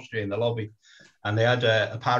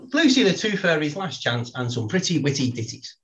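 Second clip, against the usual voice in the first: slow careful title; 4 semitones higher than usual. Shown as a demonstration. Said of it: "Tell people again what it is".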